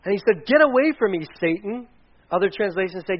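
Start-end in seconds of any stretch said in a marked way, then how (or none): 0.4-1.9 loud, high, forceful rebuke; stern reprimand. Acted. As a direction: drive him off with a sharp command. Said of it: "Then he reprimanded Peter".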